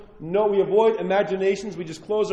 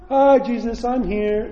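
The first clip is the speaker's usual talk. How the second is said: breezy, higher casual hello; casual greeting; 5 semitones higher, 3 dB louder, slower than usual. Pretend. Mocking a casual prayer, higher and breezy. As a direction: chirp a lazy hello to Jesus.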